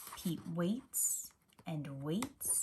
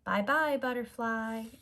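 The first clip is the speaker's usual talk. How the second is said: a fond called farewell; calling goodbye; 3 semitones higher, 5 dB louder than usual. Acted. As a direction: call after the butterfly. Everyone waves butterfly off.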